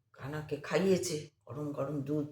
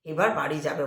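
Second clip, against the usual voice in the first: joyful reassurance; 5 semitones higher than usual. Retold or imitated. Old woman joyfully reassures.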